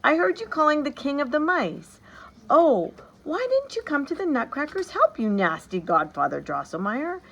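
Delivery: put-on high, loud reproachful child's outburst; a girl crying out at her godfather; cried out. A narrator's reading. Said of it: "she cried out".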